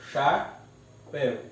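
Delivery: "chapéu" slowly split into cha, péu; syllable by syllable. Shown as a demonstration. Teacher separates an example word, "chapéu" syllable by syllable. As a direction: leave a clear gap inside "chapéu". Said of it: "eu separo".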